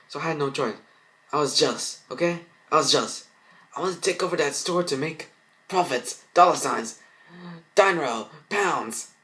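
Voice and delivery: high, hurried desperate excuses; frantic. Acted. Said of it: "Jennifer, frantic".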